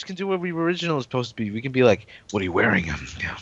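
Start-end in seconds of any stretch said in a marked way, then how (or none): 2.3-2.9 low, sultry flirting voice; low seductive voice. Pretend. Mock flirty phone line. 2.9-3.4 sultry whisper. Pretend.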